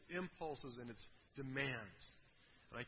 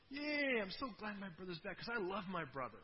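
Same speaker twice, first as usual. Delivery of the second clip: high, sarcastic fake delight; mock cheer; 4 semitones higher than usual. Preacher mocking the elder brother's fake joy, sarcastic cheer. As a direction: pretend the brother is thrilled, ironically.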